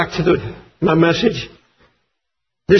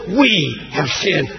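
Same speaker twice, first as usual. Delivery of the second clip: mournful confession; 7 semitones lower, 4 dB quieter, slower than usual. Acted. Nehemiah's confession voiced mournfully.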